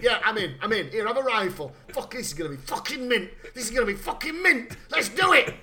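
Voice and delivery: hammed-up gleeful killer yelling that it'll be mint; mock thrilled lunatic. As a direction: ham up his delight at a fight, building to a laughing yell. Kincaid voiced as thrilled lunatic.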